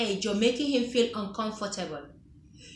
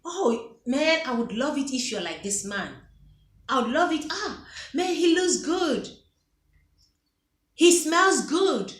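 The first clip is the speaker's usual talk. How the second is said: swooning praise; 3 semitones higher than usual. Retold or imitated. Gushing over another man.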